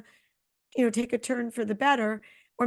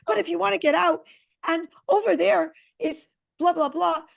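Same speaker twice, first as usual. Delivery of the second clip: excited, rambling tour-guide patter, pitched up; hammed-up driver commentary; imitating the driver; 4 semitones higher than usual. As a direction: play the flustered driver narrating the storm. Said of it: "He kept going".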